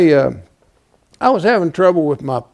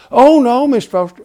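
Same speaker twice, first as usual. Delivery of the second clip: mock lady's voice; 9 semitones higher, 7 dB louder than usual. Mocking lady's reply.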